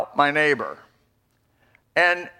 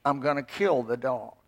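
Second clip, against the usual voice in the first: low, serious threat; 5 semitones lower, 8 dB quieter than usual. Retold or imitated. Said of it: "I looked her in the eye".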